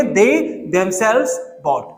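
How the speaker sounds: very slow, dragged out; slow drilled repeat. Shown as a demonstration. Teacher repeating example to class: very slow drill. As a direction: drag each word out for students. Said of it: "क्या बोलेंगे?".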